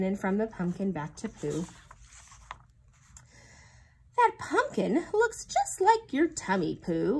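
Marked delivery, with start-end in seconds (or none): 4.2-7.2 laughing. A narrator's reading. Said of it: "laughed Tigger".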